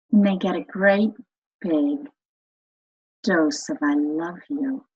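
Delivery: heart voice. Shown as a demonstration. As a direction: talk like you're loving your teenage child. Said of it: "So you go into your heart voice".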